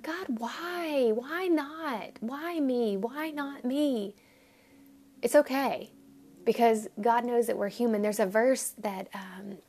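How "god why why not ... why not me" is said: higher, slow anguished questioning; a mild lament to God; plaintive why. Retold or imitated. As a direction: plead up at heaven. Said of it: "looked back and said".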